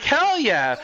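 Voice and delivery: retold eagerness. Streamer retelling a Japanese girl's spaghetti offer, mock eager. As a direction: replay an eager yes.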